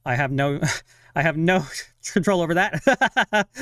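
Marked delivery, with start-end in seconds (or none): 1.2-3.6 laughing. Real, not acted. Laughs at her own apology.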